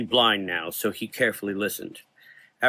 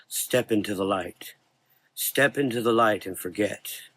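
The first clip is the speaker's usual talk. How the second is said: coaxing. Acted. Dark man coaxing.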